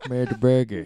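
"Murder Burger" in a loud, hammed-up orc voice; mock brutal orc. Joking about orc food, mock brutal. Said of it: "just so it sounds brutal".

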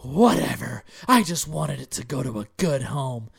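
mock indignant outburst, hard first word; mom's fit. Imitating mom throwing a fit over the cat, huffy. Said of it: "literally throws a fucking fit".

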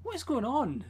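high, laughing disbelief; baffled reaction. Retold or imitated. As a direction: act totally lost and amused. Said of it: "and I'm going".

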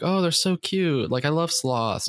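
mock gushing fan. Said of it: "There's a trend right now about sloths".

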